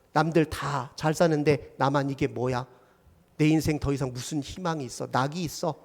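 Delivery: understated despair, softening toward the end; mildly dejected self-pity; acted depression. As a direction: let it sink into quiet hopelessness. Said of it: "이게 우울입니다".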